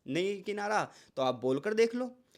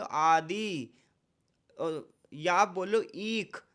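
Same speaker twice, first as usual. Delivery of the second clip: आदि, ईख, सीता said slowly, the ई drawn out; slow word demo; much slower than usual. Shown as a demonstration. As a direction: stretch each ई. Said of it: "समय भी ज़्यादा लग रहा है". (ई को खींचकर धीरे बोलें)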